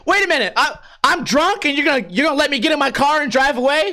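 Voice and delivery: high, incredulous protest; can't believe what he's hearing; high outraged disbelief; indignant disbelief. Retold or imitated. Angry at cop letting him drive.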